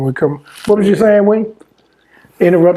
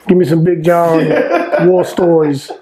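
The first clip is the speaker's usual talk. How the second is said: laughing whisper; slower than usual. Real, not acted. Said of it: "whispered laughing request".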